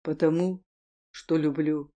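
low, quiet tender "Потому, что люблю"; soft love confession. Acted. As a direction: lean in and confess softly after a pause. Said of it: "Я сделал паузу".

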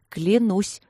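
convinced. Acted. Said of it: "сказала я убеждённо".

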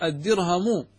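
very slow, spelled-out example; slow demo example. Shown as a demonstration. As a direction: lay out each syllable of أعطيتكه slowly. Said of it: "فتقول مثال".

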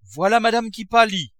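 high, loud shout of alarm; alarmed cry. A narrator's reading. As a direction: cry out for help in a panic. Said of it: "cria Nanon".

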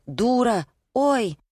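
high, yelped exclamation; squeaky outcry. A narrator's reading. Wife crying out in a marital quarrel, squeaky. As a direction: yelp it up high.

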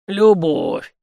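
snorted. A narrator's reading. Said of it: "хмыкнул князь".

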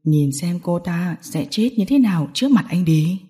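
low, cold gang boss; lightly voiced menace; threatening villain. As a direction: deliver a low death threat.

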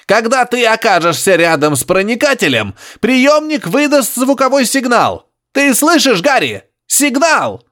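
high grunting professor. Acted. Professor insisting to Harry over radio, high grunting. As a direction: press it on him, high and piggy.

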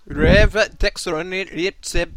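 slow, drawn-out reversed-sounding words; backwards speech. Shown as a demonstration. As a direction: say it as if played in reverse, slowly and loud. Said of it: "I speak backwards better than I do Scouse".

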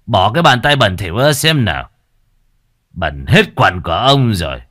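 irritated, contemptuous chief; disgusted scolding. Acted. Village chief pushes the mother's hands away, disgusted scolding. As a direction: order her off with disgust.

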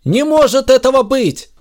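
high, loud disbelieving cry; shocked outcry; exclaiming. A narrator's reading. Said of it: "воскликнул Захар".

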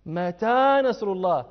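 slow, pressing, impatient ask of when; impatient question. Shown as a demonstration. Teacher showing the believers' impatience, slow pleading question. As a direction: stretch it out like someone tired of waiting. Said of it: "يستبطئون النصر لشدة البلاء".

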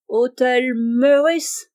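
put-on very slow, drawn-out English-accented French; solemn English accent. Monsieur Abel posing as an Englishman at the grocer's, solemn English accent. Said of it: "avec un accent anglais très prononcé et très solennel".

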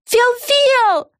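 very high, drawn-out call of Фел-Фел; very high falling call. A narrator's reading. Calling again.

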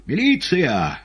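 high, loud cry for police; shouting into phone. A narrator's reading. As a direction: yell it down the receiver. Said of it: "закричал Иван в трубку".

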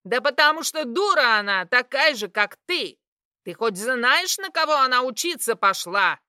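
loud, high outburst; shrill angry shout. Acted. Mother yelling at father about the daughter. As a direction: yell back at him.

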